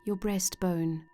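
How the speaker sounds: calm, measured meditation voice with long pauses; unhurried guided-imagery narration, phrase by phrase. Acted. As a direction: gently guide the listener into relaxation.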